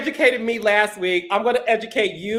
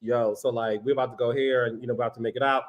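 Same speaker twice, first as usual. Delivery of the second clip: much lower and quieter macho tone; deep masculine voice; 10 semitones lower, 7 dB quieter, faster than usual. Shown as a demonstration. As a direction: talk like a low-voiced straight guy. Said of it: "the way I do it".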